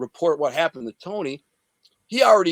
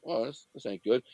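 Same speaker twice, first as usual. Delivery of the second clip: sinking realization; 3 semitones lower, 8 dB quieter than usual. Retold or imitated. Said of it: "then I get kinda like".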